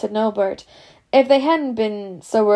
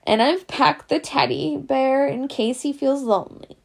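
muffled voice; 4 semitones higher than usual. Acted. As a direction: speak as if through a hanky. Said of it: "said Hagrid in a muffled voice".

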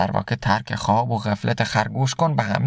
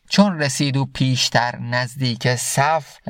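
slow, measured reading of Rumi's verse; slow verse recitation; slower than usual. Acted. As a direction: recite the couplet slowly, letting each word land. Recites Masnavi verse slowly. (شعرخوانی آرام و شمرده)

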